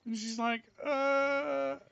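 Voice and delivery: loud, high retold argument; animated retelling. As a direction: relive the quarrel with indignation. Heated retold argument, raised voice.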